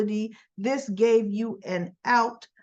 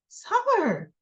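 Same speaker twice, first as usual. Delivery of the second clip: exasperated call; 10 semitones higher than usual. Retold or imitated. Retold exasperated call after her.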